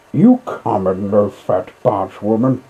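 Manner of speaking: furious Toad yells at barge woman; angry shout. Acted. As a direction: shout the insult at her. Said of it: "he shouted".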